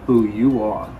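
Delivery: gentle, unhurried wise letter voice. Acted. Reads grandfather's letter aloud.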